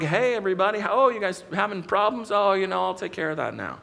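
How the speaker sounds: lightly voiced Jesus strolling in late, unbothered; casual latecomer. Imagined Jesus arrives late and breezily greets disciples, lightly voiced. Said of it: "show up later like".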